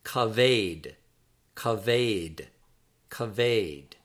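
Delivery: "kaved" as kuh-VAYD, falling at the end; pronunciation demo. Shown as a demonstration. Teacher models the word for weighty in Hebrew, careful pronunciation of "kaved" as kuh-VAYD. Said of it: "that is pronounced in Hebrew as kaved".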